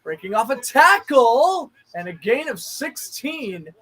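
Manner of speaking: measured broadcast call; steady play-by-play. Acted. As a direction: narrate the run like a TV announcer.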